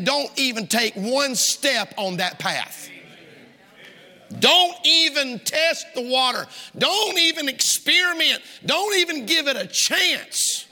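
high, insistent warning, building by repetition; emphatic preaching. Real, not acted. Preacher warns don't even test the water, emphatic preaching. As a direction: raise the pitch and drive each "don't".

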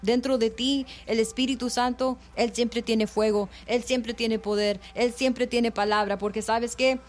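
earnest bilingual preaching, rhythmic and insistent; fervent radio sermon delivery. Acted. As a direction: preach it to the listeners with conviction.

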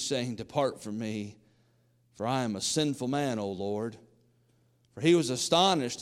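measured, solemn Bible reading; King James reading voice; scripture reading. Acted. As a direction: read the passage to the congregation.

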